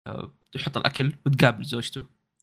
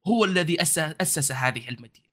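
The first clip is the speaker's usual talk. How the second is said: proud guide in formal Arabic; lightly voiced proud warrior host; formal standard arabic; 3 semitones higher than usual. GM voices warrior NPC in fusha.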